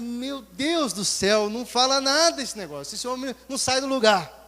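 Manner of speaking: exasperated. Retold or imitated. Fed-up man exasperated at the preacher.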